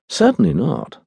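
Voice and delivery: high, blandly innocent denial. A narrator's reading. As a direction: deny it blandly in a lifted voice. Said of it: "said the saint blandly".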